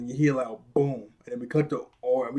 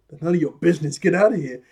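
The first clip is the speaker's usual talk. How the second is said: louder, mildly heated retort; mock argument; 3 semitones higher, 6 dB louder, faster than usual. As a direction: act out telling someone off. Acted argument in the elevator.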